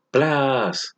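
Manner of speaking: imitated impact noise. Shown as a demonstration. Teacher reading a comic onomatopoeia aloud, imitated impact noise. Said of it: "Esa palabra plas está imitando un ruido".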